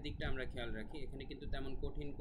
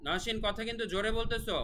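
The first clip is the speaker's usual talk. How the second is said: raised-voice scolding; 9 semitones higher, 5 dB louder than usual. Real, not acted. Teacher breaking off the lesson to hush someone, raised voice. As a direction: call out to hush someone nearby.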